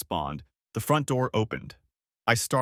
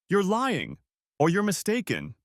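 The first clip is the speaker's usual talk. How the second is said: angry accusation; 8 semitones higher than usual. Acted. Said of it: "He was shouting".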